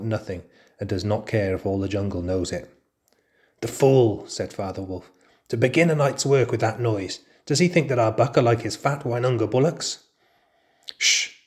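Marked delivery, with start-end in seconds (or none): 3.6-10.0 scornful. Acted. Father Wolf scorning the tiger. 11.0-11.3 sharp unvoiced shush; hushing. Mother Wolf hushing Father Wolf, sharp shush.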